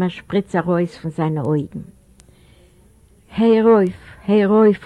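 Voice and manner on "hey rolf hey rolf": loud, raised cry at a father; acted youth's outburst, louder and higher; high-voiced shout. A narrator's reading. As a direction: yell it out sharply, pitched up. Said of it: "angefangen zu schreien auf seinen Vater, mit einer sehr hohen".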